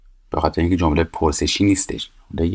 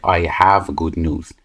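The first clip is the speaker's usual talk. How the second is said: 1 slow model sentence; much slower than usual. Shown as a demonstration. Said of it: "عین همون فعل رو میاریم".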